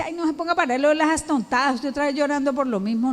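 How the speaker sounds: fast, tired and dismissive; a hint of an annoyed spouse cutting it short; mock weary spouse; impatient brush-off. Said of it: "No, esa no es la compostura".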